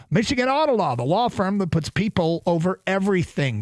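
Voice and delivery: upbeat sponsor read, punchy and selling; radio ad read. Acted. Radio host reading a sponsor spot live on air, upbeat ad read. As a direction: sell the law firm like a live radio spot.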